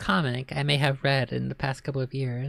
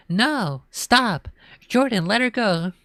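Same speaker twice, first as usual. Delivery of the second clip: much higher panicked scream; 7 semitones higher than usual. A narrator's reading. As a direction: scream at him to stop. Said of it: "Ashley screamed".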